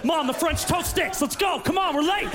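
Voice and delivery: put-on whiny kid. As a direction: nag your mom about breakfast. Kid whining back at mom.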